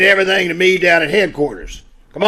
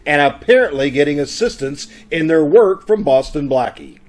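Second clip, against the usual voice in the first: radio announcer recap; 3 semitones lower than usual. Acted.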